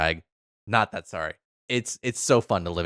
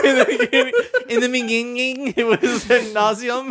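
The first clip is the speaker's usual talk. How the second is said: mock epic narration; 4 dB louder than usual. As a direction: intone it like a myth, hamming it up. Mock-epic retelling of the lore.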